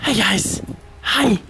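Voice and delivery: high, sing-song hello to the cats; pet greeting voice. Real, not acted. Owner greeting the returning cats, high coo.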